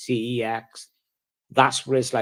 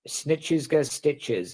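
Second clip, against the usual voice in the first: slow saying; 3 semitones higher, much slower than usual. Real, not acted. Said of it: "That's what they call it".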